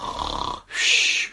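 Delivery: mock snoring breath, no voice; noisy make-believe snore; imitated snore. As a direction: imitate a sleeper sawing logs. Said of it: "sawing logs".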